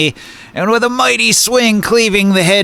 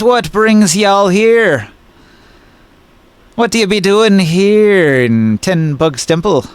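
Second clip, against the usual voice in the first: drawn-out southern drawl, pitched up; southern-Irish lilt on a slow drawl; thick Nibonese accent; 4 semitones higher, slower than usual. Acted. Woman greets strangers at the temple, thick southern drawl. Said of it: "She's got a thick Nibonese accent".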